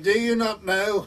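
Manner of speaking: high, loud Welsh parson's question; Evans. Retold or imitated. Welsh parson quizzing a gardener, Welsh accent. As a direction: put on a Welsh accent, lecturing. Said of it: "in his Welsh voice".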